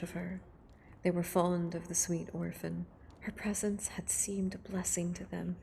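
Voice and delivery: hushed, close reading of a novel. Acted. Streamer reading Frankenstein aloud to ASMR viewers, hushed and close.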